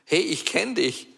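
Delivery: höher, freudig angesprochen wie von einem Fan; freudiges Wiedererkennen. Retold or imitated. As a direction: ein Fremder erkennt ihn freudig. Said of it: "anzusprechen und sagen". (Fremde auf der Straße sprechen ihn an, freudig erkennend)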